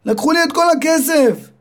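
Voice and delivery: high, upset mother's voice. Acted. Mother tells her son the money is gone, high and upset. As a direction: wail it like a robbed mother.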